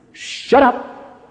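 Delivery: short, effortless order; curt command. Acted. Jesus silencing the demon, curt command. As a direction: dismiss it with two words. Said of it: "just two commands".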